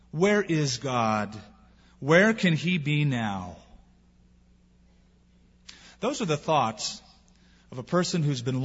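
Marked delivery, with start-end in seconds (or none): 0.1-3.6 slow, aching question; despairing plea. Retold or imitated. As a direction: drag the words out in grief. Quoted despairing cry continues.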